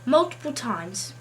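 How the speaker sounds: put-on English accent. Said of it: "I've decided today to do an English accent".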